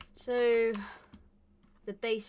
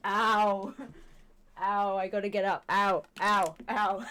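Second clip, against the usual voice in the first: laughing through pain; 4 dB louder, slower than usual. Real, not acted. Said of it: "I'm in pain".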